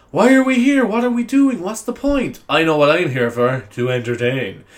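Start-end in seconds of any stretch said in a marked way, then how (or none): 0.1-2.4 mock existential angst. Teen existential crisis, acted.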